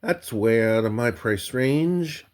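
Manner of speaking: a sudden high squeak, then a dismayed aside; startled yelp. Retold or imitated. Seeing the coaching session cost, a shocked squeak. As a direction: recoil from the price with a squeak.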